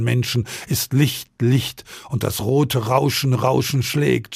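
cling to each word as it slips away, echoing it; dying man's fevered vision. Acted. Dying Jura raves to the seraph in a fevered, repeating voice.

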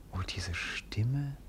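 slow, breathless whisper; whispered, spellbound by her voice; awed whisper. Acted. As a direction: barely breathe it out in wonder. Moved by the voice he hears.

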